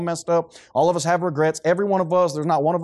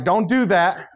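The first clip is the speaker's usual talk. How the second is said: hammed-up protective mama, a bit louder; mock doting mother; 3 semitones higher, 4 dB louder than usual. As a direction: play the mother shielding her baby boy. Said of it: "be like".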